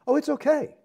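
high, sneering put-on voice; sing-song mock of a smug excuse. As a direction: parody a dismissive believer. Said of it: "They're still saying that".

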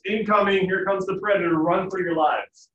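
loud, high panicked warning; loud high frantic alarm; alarm call. Retold or imitated. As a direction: shout the warning to everyone. Monkey alarm call voiced.

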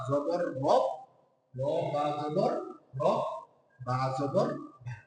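slow recitation drill, each letter and vowel sign named; teacher spells রব্বা slowly, sounding out বা জবর বা; spelling out letter by letter. Shown as a demonstration. শিক্ষক বানান করে ধীরে ধীরে উচ্চারণ করছেন. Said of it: "কি হলো?".

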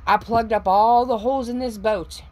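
high, loud gloating cheer; triumphant cheer. Retold or imitated. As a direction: crow it out like a winner, a bit slow. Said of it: "you're like".

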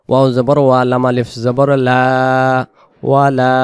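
whispered spelling. Real, not acted. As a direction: breathe the letters out. (ফিসফিস করে)

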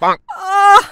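slow wailing sobs after a beating; hammed-up crying. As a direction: cry over how hard she hit. (पिटाई के बाद नाटकीय रोना)

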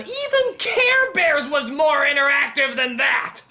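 high-pitched, indignant complaint; indignant rant. Pretend. Critic scolding the film's fake interactivity, indignant rant. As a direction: rant in hammed-up outrage.

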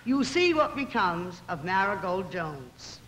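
a hint of gloomy, grave townsfolk; sepulchral tones. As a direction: lightly darken it like mourners passing judgment. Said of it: "remarked in sepulchral tones".

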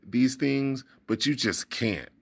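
a touch of scolding; father telling off his son, mildly angry; mild anger. Acted. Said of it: "his father said angrily".

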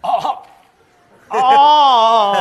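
sustained high yelling note; long high shout. Pretend.

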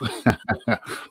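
soft run of chuckles. Real, not acted. Host introducing the guest himself, soft chuckle. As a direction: chuckle lightly to yourself.

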